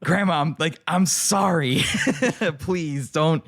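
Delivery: high, laughing, embarrassed apology to grandma; laughing plea. Retold or imitated. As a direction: beg forgiveness through giggles.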